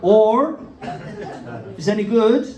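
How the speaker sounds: Bristol tannoy announcer. Retold or imitated. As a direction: read it over the station speakers, deadpan. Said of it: "the best tannoy announcement".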